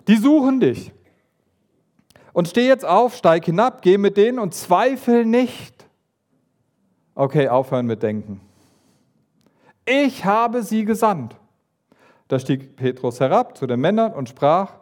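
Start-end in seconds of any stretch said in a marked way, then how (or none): 0.1-11.4 voice of God. Retold or imitated. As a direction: speak as God giving firm orders. God voiced speaking to Petrus.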